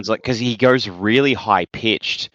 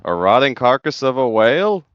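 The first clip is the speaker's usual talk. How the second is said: higher-pitched cartoon character voice; put-on character voice with rising question; Zoidberg; 5 semitones higher, 3 dB louder than usual. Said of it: "and Zoidberg goes".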